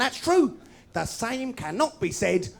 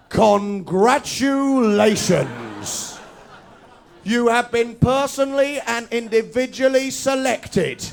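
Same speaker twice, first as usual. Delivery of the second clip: mock junk mail voice; 4 dB louder, much slower than usual. Reading junk mail letter.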